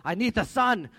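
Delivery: loud imitated child's whining demand; upset young son. Upset son demands the sun from Daddy, mock tantrum. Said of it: "when he gets upset".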